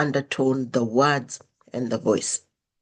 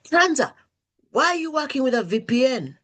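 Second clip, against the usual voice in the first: mock suspicious question; 8 semitones higher than usual. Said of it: "came back and said".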